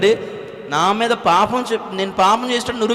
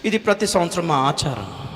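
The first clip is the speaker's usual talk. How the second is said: elder's reply; 3 semitones lower, 3 dB quieter than usual. Retold or imitated. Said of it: "ఆయన అంటాడు".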